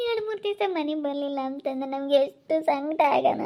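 tearful, grieving lament; crying. Acted. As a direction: speak through tears of worry. Mother grieving missing daughter. (ಅಳುತ್ತಾ ದುಃಖದ ಮಾತು)

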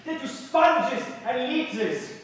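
slow, loud, raging cry; loud furious revolutionary's roar; furious shout. Acted. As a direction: hurl it at the tyrants. Revolutionary outburst.

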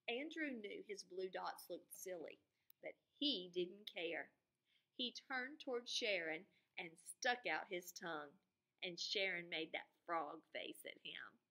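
lively storybook reading; reading to children. A narrator's reading. Teacher reading the book aloud to her students, expressive. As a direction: read it to the class with expression.

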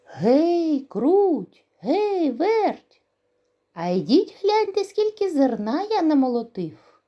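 high, loud rooster call. Acted. Rooster calls the mice to see the grain, loud high call. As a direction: call the mice from across the yard. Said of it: "та й знов гукає".

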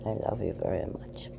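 soft whisper of affection; whispering to the cat. Real, not acted. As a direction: whisper tenderly to the pet.

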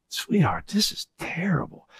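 hushed whisper to his wife; whispered aside. Retold or imitated. Whispering to Angie that it's terrible. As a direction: lean in and whisper it.

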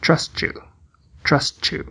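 trust you dito "trustchu"; T de trust como TCH. Shown as a demonstration. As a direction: una o T e o you como em tchau. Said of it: "T tem som do T C H na palavra tchau". (trust you com som de tch)

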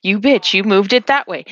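retold listener grumbling at the game master; lightly acted accusation; mock indignation. Listener reacting to the game master's scheming, mock indignation. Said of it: "I'm sitting there going like".

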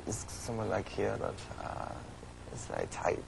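German accent. Shown as a demonstration. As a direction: demonstrate a tight German accent. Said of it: "give me the German and the Russian".

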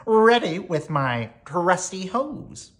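high, slow, loud fireman's announcement; storybook fireman's ready cry. A narrator's reading. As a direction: proudly report for duty, stretching the words. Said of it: "cried the fireman".

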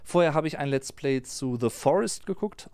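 normal talking voice

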